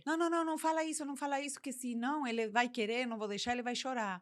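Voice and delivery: imitating a worried mother talking fast; anxious overprotective mother. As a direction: hurry to stop the child's tears.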